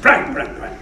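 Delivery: put-on an older actor coaxing a young one, lightly done; a fond hint of Fulton calling across the set; imitating Fulton. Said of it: "He said".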